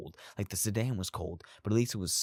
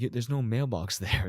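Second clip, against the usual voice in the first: raised, louder teasing through a laugh; laughing tease; 5 semitones higher, 5 dB louder than usual. Retold or imitated. Dad laughing at sleepy son's mailbox mistake, teasing. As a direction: laugh out the words while teasing.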